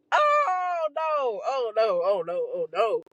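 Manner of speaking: horror draining into disbelief; horrified oh no. Retold or imitated. Realizing what's on her shoulder, a shocked oh no fading out.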